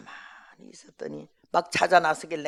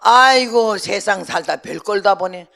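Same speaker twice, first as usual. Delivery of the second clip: mild scoffing; 3 semitones higher, 9 dB louder than usual. Retold or imitated. Old mother scoffs at guest.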